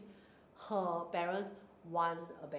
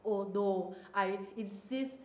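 sassy; 4 dB louder, slower than usual. Retold or imitated. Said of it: "Why you say it in such a sassy tone".

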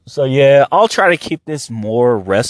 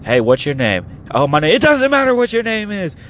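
The Rock catchphrase; 3 semitones higher than usual. Retold or imitated. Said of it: "The Rock had".

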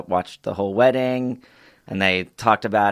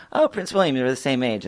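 put-on a kid thrilled to spot the prince; childish delight; 3 semitones higher than usual. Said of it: "So I was like".

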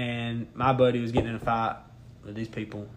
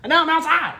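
laughing; 8 semitones higher, faster than usual. Real, not acted. Laughing while telling bar story.

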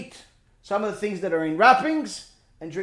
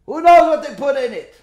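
"Who knows what they put in it?" again, higher and louder, hitting "knows"; louder repeat; 4 semitones higher, 6 dB louder than usual. Shown as a demonstration. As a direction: drive the question home, louder. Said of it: "first take said plainly".

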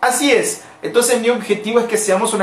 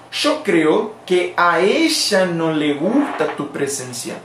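slow, careful Spanish model sentence; slow translation; 2 semitones lower, slower than usual. Shown as a demonstration. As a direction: spell it out slowly for the students. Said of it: "¿cómo se traduce eso al español?". (frase de ejemplo, lenta y clara)

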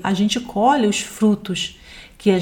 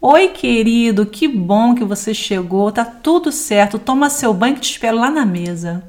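kind wife. Acted. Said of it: "Olha que diferença".

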